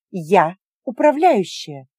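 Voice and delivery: each syllable of управляющая pressed out slowly; stern manager stating her rank; clipped declaration. Acted. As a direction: rap out "Я управляющая" slowly and firmly. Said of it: "отчеканила Гримми".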